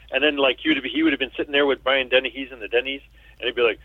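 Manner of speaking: ordinary delivery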